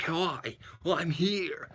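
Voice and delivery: a light put-on camera voice; mild mock on-camera greeting. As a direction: mimic a stiff on-camera hello. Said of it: "they do their camera voice".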